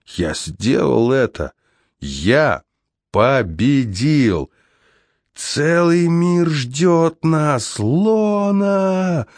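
slow, rising triumphant cry; exclaimed. A narrator's reading. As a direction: shout it out in victory. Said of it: "воскликнул я".

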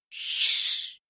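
sharp breathy shushing; hoarse hush. A narrator's reading. Saint-Clare hushes Marie by the bed, hoarse shushing. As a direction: silence her with a rasping shh. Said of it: "хриплым голосом".

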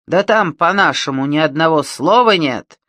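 громкий бандит. Acted.

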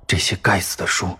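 roaring demon, furious; angry roar. A narrator's reading. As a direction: bellow it like an enraged demon. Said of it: "他发出愤怒的吼声". (愤怒的吼声)

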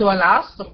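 والعصر closed on a vowelless R; still ra at stop. Shown as a demonstration. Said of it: "سكنت الري عشان أنا وقفت".

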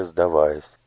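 ordinary delivery, nothing marked

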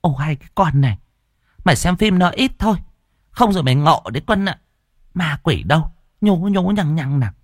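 fast, high-pitched irritated nagging; a mother scolding her daughter, quick and cross; testy scolding. Acted. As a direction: brush off the daughter's ghost story crossly. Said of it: "Bà Linh gắt gỏng".

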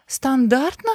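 a touch of a shrill outraged question; thin cry. A narrator's reading. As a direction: cry the word out thinly. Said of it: "тоненько выкрикнула".

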